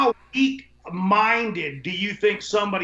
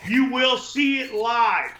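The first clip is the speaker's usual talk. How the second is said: wrestling promo hype; 3 semitones higher, 4 dB louder than usual. Pretend. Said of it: "Ron, you be Ron first".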